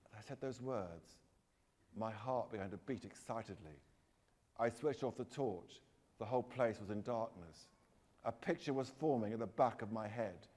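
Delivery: hushed-toned, measured ghost-story reading; suspenseful story narration. Acted.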